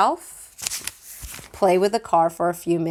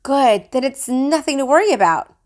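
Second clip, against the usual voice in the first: lightly voiced brisk mom; reassuring mother; 6 semitones higher, 4 dB louder than usual. A narrator's reading. Mother reassuring grandma, lightly voiced. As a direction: brush the worry aside. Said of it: "my mother told her".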